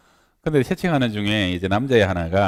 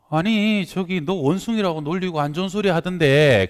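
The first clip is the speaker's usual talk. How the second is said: lightly voiced mother, pitched higher; concerned mother; 6 semitones higher than usual. Mother presses her teased daughter, mildly concerned protest.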